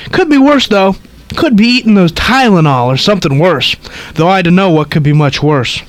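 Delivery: put-on gossipy old woman rattling on; old lady voice. Reads old lady's lines.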